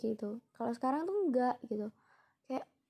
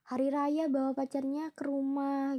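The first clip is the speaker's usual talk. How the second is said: slow, higher imitation of grandma's nagging; fussing grandmother; 4 semitones higher, 3 dB louder, slower than usual. Grandmother listing what the friend does at holidays, imitated slow nagging. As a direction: drag it out like a lightly voiced nagging grandma. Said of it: "yang nenek aku ini yang heboh gitu".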